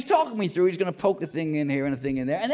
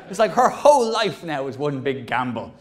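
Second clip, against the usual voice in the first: ordinary delivery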